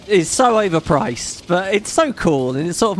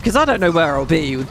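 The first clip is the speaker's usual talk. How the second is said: panicked retelling; 5 semitones higher than usual. Retold or imitated. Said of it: "And I was like".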